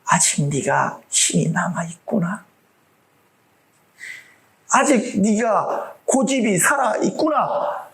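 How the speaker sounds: slow, measured divine voice; slowly, as God weighing the stubborn soul; God's calm verdict. Pretend. God speaking to the believer.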